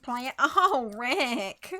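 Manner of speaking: put-on comic character voice, drawn out; plaid plastic voice. Shown as a demonstration. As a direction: drag out the name in a silly voice. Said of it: "Yes, plaid plastic voice".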